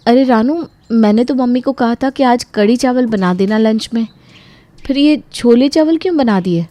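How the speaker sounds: why did you cook this; annoyed surprise. Acted.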